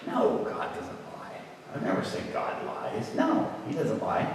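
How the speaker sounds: very soft, almost whispered; hushed, low-pitched reply; meek answer. Retold or imitated. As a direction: imitate a cowed boy answering under the breath. Young self meekly answers preacher.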